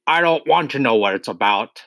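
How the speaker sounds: mild bark from an irritated father; barked interruption. Acted. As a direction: cut the child off, moderately annoyed. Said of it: "Mister Wormwood barked".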